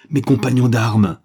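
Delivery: hoarse broken cry. Acted. The major crying out for his fallen comrades, hoarse and loud. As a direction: cry it out, voice cracking. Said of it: "d'une voix rauque et brisée".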